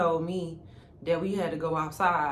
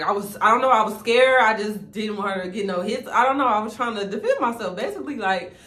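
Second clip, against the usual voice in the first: usual speaking voice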